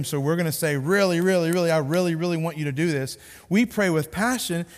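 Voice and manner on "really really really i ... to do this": pleading. Acted. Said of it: "we're trying to persuade him".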